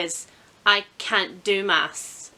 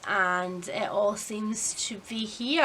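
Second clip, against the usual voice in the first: whispered aside; 2 semitones lower, 8 dB quieter, slower than usual. Real, not acted. Aside about the mess.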